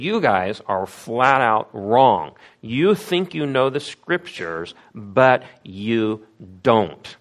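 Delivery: slow and blunt, but you don't very slow; deliberate confrontational correction; in-your-face rebuke. Retold or imitated. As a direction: go right for the throat, slowly. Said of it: "How's that for in your face".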